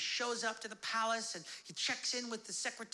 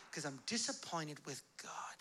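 low, hushed whisper; whispered confession; 4 semitones lower, 5 dB quieter than usual. Acted. Disappointed believer confesses about God, whispering. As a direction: let it out as a private admission.

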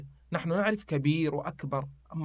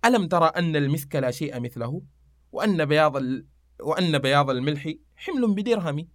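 measured classical Arabic verse recital; verse recitation. Acted. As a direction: recite the couplet in metre.

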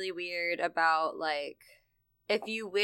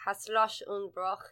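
German accent. Shown as a demonstration. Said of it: "I'm just doing this in the German accent".

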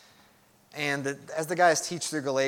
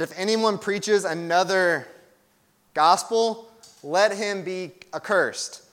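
slow, weighty pronouncement; emphatic; slower than usual. Retold or imitated. Preacher reciting Paul's warning to the congregation, slowly and emphatically. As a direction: deliver it as a measured, solemn warning. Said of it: "said that a little bit more emphatically".

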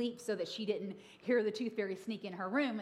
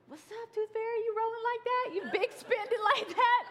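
teasing sass; 12 semitones higher, 4 dB louder than usual. Retold or imitated. Teasing husband.

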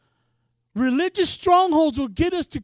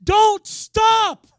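high, loud urgent command; loud charge: don't stop; commanding voice of God; 8 semitones higher, 10 dB louder than usual. Retold or imitated. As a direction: call it out like a divine order. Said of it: "I heard the Lord say this".

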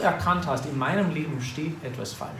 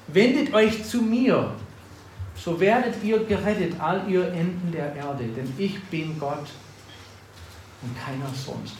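preaching scripture. Acted. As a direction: proclaim it from the pulpit. Preacher reads scripture aloud.

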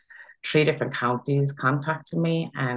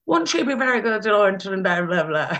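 much higher imitation of a sister gushing; imitating her sister; 7 semitones higher, 4 dB louder than usual. Late sister telling the other sisters she'd be good, imitated high and eager.

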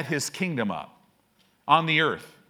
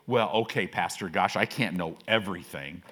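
lower, deflated mock excuse; whiny churchgoer; 10 semitones lower, 4 dB quieter than usual. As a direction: play a sheepish member making excuses, pitched down.

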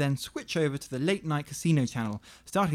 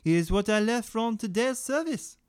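lightly done broken French chef; mild fake French; 3 semitones higher than usual. Chef Gary boasts about his stew, mock French. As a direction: keep a hint of the fake French. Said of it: "broken French accent".

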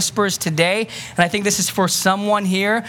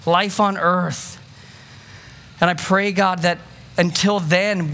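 closing prayer; 2 semitones lower than usual. Acted. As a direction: pray over the room sincerely.

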